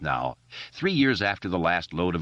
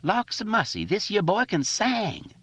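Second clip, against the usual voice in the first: put-on dialect voice. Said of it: "in his pickaninny voice".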